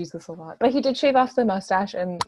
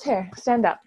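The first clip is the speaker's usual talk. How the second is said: put-on British accent. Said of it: "I'm doing his accent".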